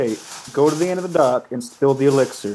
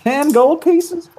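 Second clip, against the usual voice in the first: surprised; 12 semitones higher, 4 dB louder, much slower than usual. Acted. Amazed at the reward.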